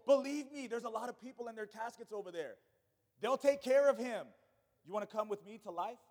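loud, blunt command as Jesus; forceful Jesus. Acted. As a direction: lay it down like Jesus, no excuses. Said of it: "Jesus like".

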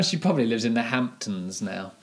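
offhandedly dismissive. Real, not acted. Co-host sniffs at an author's Hamptons life, mildly dismissive. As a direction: brush her off lightly. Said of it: "you said that quite dismissively".

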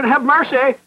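high, imitated plea; pleading supplication. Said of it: "he said they made supplication".

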